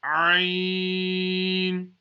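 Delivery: Ain pushed out from the middle of the throat; Arabic letter Ain from the throat; throaty Ain. Shown as a demonstration. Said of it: "pronounced from the middle of the throat".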